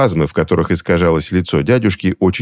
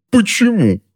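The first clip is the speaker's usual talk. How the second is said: much higher strained wailing why; much higher anguished wail. A narrator's reading. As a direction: wail it, close to breaking. Husband whining in pain.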